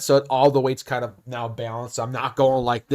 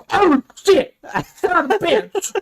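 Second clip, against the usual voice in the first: very high-pitched mock dismay; disgusted customer imitation; 13 semitones higher than usual. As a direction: cry out as the horrified customer, far above your voice. Customer drinks from spit cup.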